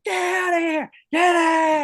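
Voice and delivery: high, loud scream to scare off an animal; shouting away a lurking beast. Retold or imitated. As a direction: yell it through a pipe like a bullhorn. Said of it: "I start screaming".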